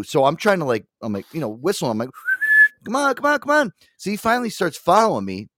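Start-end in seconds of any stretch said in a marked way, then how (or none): 2.9-3.7 high-pitched puppy-calling voice; quick, high coaxing chant; coaxing a dog. Retold or imitated. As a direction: imitate calling a puppy over. Imitates coaxing a loose puppy.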